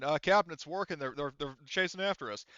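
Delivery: lightly voiced drill sergeant; a hint of sergeant in a radio report; Horgus. Horgus radios the captain about pursuers, lightly voiced drill sergeant. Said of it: "voicing Horgus basically as, like, a drill sergeant".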